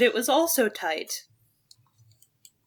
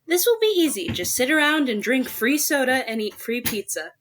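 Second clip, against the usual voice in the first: character line. Acted. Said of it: "Hope's got a line".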